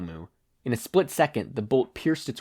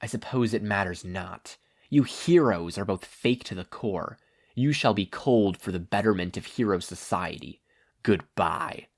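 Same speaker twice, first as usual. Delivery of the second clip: menacing villain. Acted. Stain about to strike.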